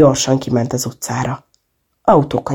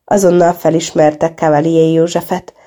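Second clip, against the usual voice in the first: plain reading voice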